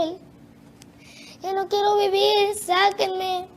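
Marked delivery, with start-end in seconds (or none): 1.4-3.5 retold pleading cry. Tormented man begging to be taken out, mildly imitated cry. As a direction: retell a desperate cry without really shouting. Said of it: "y gritaba".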